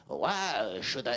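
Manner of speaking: slow, sulking car refusing help; sulky car voice. Acted. The car sulks at its careless owner, slow and grudging. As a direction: play the car, put out and stubborn.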